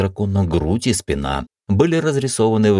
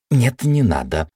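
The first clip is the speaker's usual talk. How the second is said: alarmed; 7 semitones higher, slower than usual. Acted. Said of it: "тут же всполошилась Ева".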